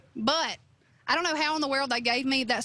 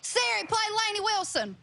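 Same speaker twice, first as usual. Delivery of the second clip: thick Southern accent; 8 semitones higher than usual. Shown as a demonstration. The singer at home in Louisiana, asking Siri for her own song: thick Southern accent. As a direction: talk to Siri like you're home with family in Louisiana. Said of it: "in your Lainey accent".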